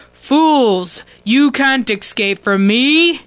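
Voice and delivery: booming, slow rumbling villain voice. Acted. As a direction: rumble it out like a giant. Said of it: "The rumbling voice surrounds you".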